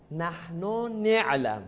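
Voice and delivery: نعلم with an i/e vowel on the first n; Taltala dialect. Shown as a demonstration. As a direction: say نعلم as ne'lam after نحن. (نعلم با کسرهٔ نون اول)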